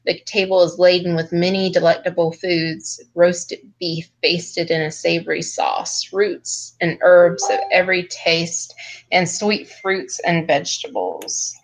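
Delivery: measured read-aloud narration; game master's scene setting. A narrator's reading. Game master shows the party the magnificent chamber, scene-setting narration. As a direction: read the grand description evenly and deliberately.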